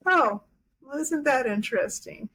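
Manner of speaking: amused imitation of the teacher's accent; a light take on his accent, lifted pitch; Eckhart Tolle's accent. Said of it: "he said this so funny in his accent".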